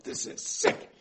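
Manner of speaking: unvoiced, soft inner muttering; hushed thought. Gideon thinking to himself, hushed and whispery. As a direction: think it quietly to yourself.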